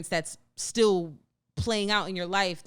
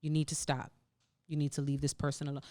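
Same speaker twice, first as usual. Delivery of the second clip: calm, soft and lower; very calmly; 7 semitones lower, 5 dB quieter, faster than usual. Retold or imitated. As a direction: say it gently and evenly. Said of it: "gonna say very calmly".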